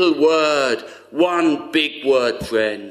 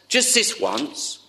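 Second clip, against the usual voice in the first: higher, slow, breathy tempting whisper; whispering tempter; 9 semitones higher than usual. Retold or imitated. Tempter whispering to a young person, slow hushed coax. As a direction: whisper it like a voice luring you in. Preacher voicing the tempter's coaxing.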